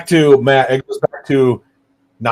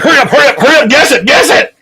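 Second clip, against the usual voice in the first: high, eager hurry-up; excited urging; 13 semitones higher, 7 dB louder, much faster than usual. Retold or imitated. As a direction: rush her to guess. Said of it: "I'm like".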